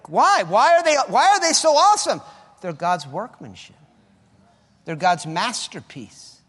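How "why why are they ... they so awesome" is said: loud, high sermon exhortation; full-force preaching. Acted. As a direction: drive it home to the congregation.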